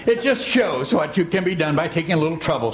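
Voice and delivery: quick, lightly voiced self-satisfied lesson; lecturing Eeyore. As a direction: lightly lecture your friends in a rapid run. Plays Eeyore lecturing his friends.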